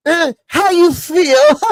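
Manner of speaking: high slow mocking whine; mock soft greeting. Mocking young men's limp greeting, high and slow. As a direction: drawl it out like a softie. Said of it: "wrong with these young men's handshakes".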